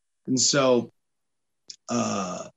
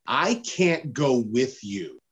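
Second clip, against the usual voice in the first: laughing refusal; 3 semitones higher than usual. Retold or imitated.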